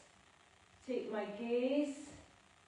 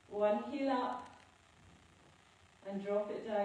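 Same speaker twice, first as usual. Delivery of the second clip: breathless, gasping for air between words; out of breath. Real, not acted. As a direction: speak while winded from exercise. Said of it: "I'm out of breath".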